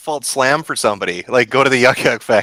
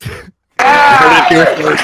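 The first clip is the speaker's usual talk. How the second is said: laughing tease; 10 semitones higher, 4 dB louder, slower than usual. Real, not acted. Teasing punchline.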